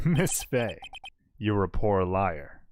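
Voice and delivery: slow, gloating villain; smug villain. Acted. Villain gloating at the lawyer, slow and smug. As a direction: savor the taunt, drawn out. Voiced villain taunting Miss Fei.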